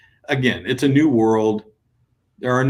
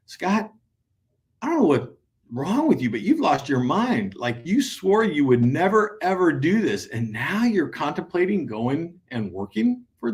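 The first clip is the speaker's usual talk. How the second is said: higher, exasperated wife telling him off; a higher, incredulous spouse; imitating the spouse; 6 semitones higher than usual. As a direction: play the wife who thinks he's lost his mind. Spouse voiced scolding husband.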